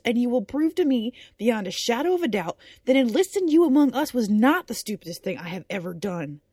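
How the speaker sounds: menacing, rising intensity; sinister. Acted. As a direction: threaten him coldly. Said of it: "her voice taking on a rather sinister tone now".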